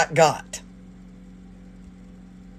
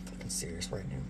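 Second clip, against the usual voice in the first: deadpan disbelief; 12 semitones lower, 18 dB quieter, faster than usual. Retold or imitated. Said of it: "if you saw my shoulders, I went".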